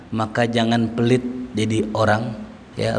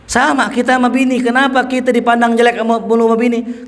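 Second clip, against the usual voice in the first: preaching emphasis; 10 semitones higher, 3 dB louder than usual. Acted. Preacher raises voice on point.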